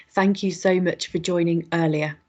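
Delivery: slightly hoarse, croaky throat. Real, not acted. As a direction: talk through a croaky voice. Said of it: "I've got a little bit of a croaky voice today".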